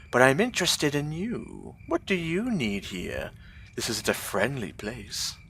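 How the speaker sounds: a lightly voiced, bright, odd gnome; cheerful mad gnome. Beggar gnome thanking a generous stranger, bright and strange. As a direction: sound pleased and a little unhinged.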